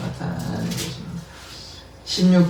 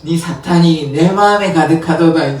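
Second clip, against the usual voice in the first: louder accusing Peter quote; loud rebuke; 7 dB louder than usual. Retold or imitated. Peter rebuking Ananias, loud and accusing. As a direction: hurl the accusation. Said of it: "공교롭게도 이 말을".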